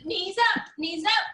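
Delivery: loud coach commands; barking gym coach. Real, not acted. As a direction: call it out to the runners. Coach calling drills to gymnasts.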